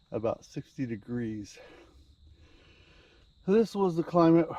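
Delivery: narrating a plaque, documentary style; reading a sign aloud. Acted. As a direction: read it like a museum placard.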